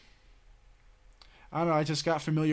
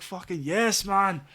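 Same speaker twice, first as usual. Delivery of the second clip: happy exclaim; 5 semitones higher, 4 dB louder, slower than usual. Retold or imitated. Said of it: "He was so happy".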